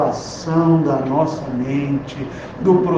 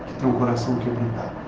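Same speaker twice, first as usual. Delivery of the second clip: ordinary talk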